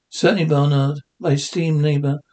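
low, formal and dignified; posh formal voice. Acted. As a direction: speak like a stuffy gentleman. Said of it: "please, not Freddy".

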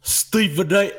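slow, congested Big Perk voice; Kendrick Perkins impression. Doing his Big Perk for his co-hosts, stuffy and slow. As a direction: push it all into the nose, slow and stuffy. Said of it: "That's my Big Perk".

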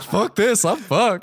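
mock panic. Acted loser bails on the race.

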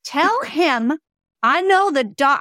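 indignant, emphatic retold order; retold pissed-off woman. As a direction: relay her annoyance, hitting the words hard. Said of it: "So then she gets pissed".

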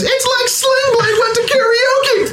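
high, laughing, slowed mock cry; high laughing spirit. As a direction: shriek it while laughing. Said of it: "glows red again and says".

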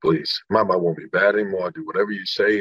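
understated plea to a mother; mild, low-voiced imitation of begging; retold pleading. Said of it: "I remember this kid begging".

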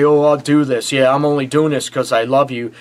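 mock whine of a grudging partner; whiny and pouty. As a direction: whine it like a sulky partner dragging their feet. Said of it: "to be whiny and pouty and say".

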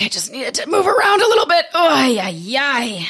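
laughing it off; light embarrassed laughter. Real, not acted. Laughing off the cramp.

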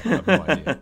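laughing. Real, not acted. Laughing while admitting ignorance.

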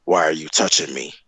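low, mock-irritated girlfriend; girlfriend's snippy question. Mocking his girlfriend's annoyed question. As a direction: imitate her cold annoyance. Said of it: "she, like, looked back at me and was like".

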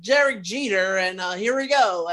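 mock ballpark announcer call; sports radio voice. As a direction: call it like a baseball radio host. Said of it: "he had that kind of voice".

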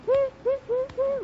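high mock train whistle choo choo; playful high choo-choo sound; train imitation. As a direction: toot it out like a departing train. Imitates train leaving for Boston.

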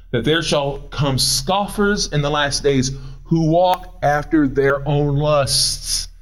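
slow, measured reading of the verse; deliberate scripture reading. Acted. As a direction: read it out slowly like holy writ.

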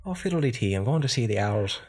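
hammed-up country Irish accent; fiddly-tee Irish accent. Host off to see the owls, fiddly-tee Irish accent. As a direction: play up a lilting Irish accent. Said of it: "this is the fiddly tee".

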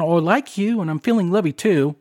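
lightly put-on British lady; bad British accent. Host mimicking the British woman's voice on the recording, in a bad British accent. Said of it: "my horrible British accent".

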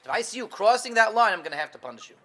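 mock angry warning, loud then easing off; angry God. Angry God warns of crossing the line, mock threat. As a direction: lay down the line as a stern God. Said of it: "It's just an angry God".

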